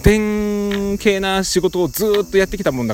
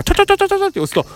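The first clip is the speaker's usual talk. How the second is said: high, fast ちょちょちょ burst; rapid tapping sound; much faster than usual. Shown as a demonstration. Showing his father the rapid-fire tap, high and fast. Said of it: "十六連打みたいなのが".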